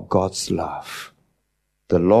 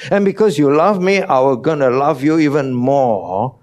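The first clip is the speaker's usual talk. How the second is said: higher, louder, eager voice of Jesus; voicing Jesus; 5 semitones higher, 4 dB louder than usual. Preacher quoting Jesus to parents, raised eager voice. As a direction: lift the voice as Jesus promising love. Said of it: "Jesus said".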